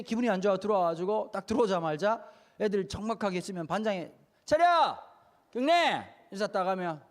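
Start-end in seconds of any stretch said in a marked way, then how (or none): 4.4-6.0 loud, high barked class orders; teacher's barked command. Retold or imitated. Feared math teacher barking orders at the class.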